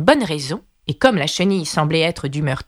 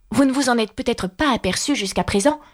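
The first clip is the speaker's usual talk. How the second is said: higher-pitched Alice; Alice, polite and earnest; 5 semitones higher than usual. Acted. (Alice, voix aiguë et polie)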